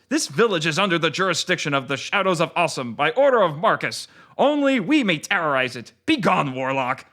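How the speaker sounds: lightly voiced Japanese-accented ninja; hint of a gruff Japanese accent. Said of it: "in a gruff Japanese-sounding accent".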